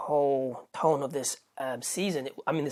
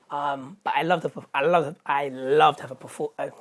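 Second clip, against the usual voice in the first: tripping over the words; stammering in excitement; stuttering; 4 dB louder than usual. Real, not acted. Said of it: "I'm stuttering".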